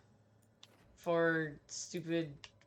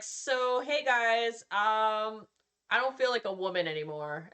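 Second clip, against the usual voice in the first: mock-casual chirpy announcement, pitched higher; mocking the character; 5 semitones higher, 4 dB louder than usual. Gamer mimicking the game character's confession, lightly mocking. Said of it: "she was like".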